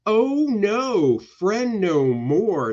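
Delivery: hammed-up dismay, starting high; mock dismay. Narrating the friend turned foe, mock dismay. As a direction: draw it out in melodramatic dismay.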